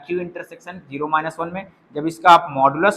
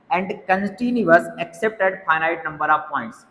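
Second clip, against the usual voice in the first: very slow, deliberate English phrasing; slow dictation; much slower than usual. Shown as a demonstration. Teacher reading the theorem condition to students, very slowly. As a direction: lay out each word of the condition slowly.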